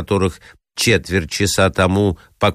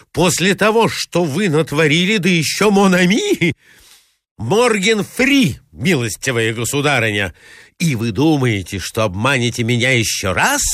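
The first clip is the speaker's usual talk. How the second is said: higher, sarcastic angry tirade; outraged rebuke; 5 semitones higher than usual. Acted. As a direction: scorn her with rising fury. Enraged suitor berates the lady. (возмущённая, насмешливая отповедь)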